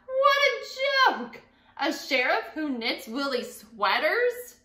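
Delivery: high, slow, scornful jeer; mocking laughter. Townspeople mocking the knitting sheriff, scornful. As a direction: scoff at the very idea.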